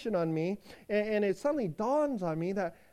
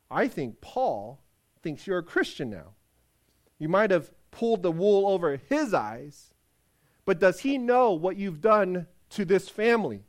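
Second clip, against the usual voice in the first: stern; 5 dB louder than usual. Acted. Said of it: "looks at me sternly".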